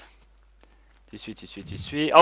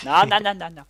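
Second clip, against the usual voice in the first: urgent shout; 5 semitones higher, 6 dB louder than usual. Real, not acted. Pet dog running off.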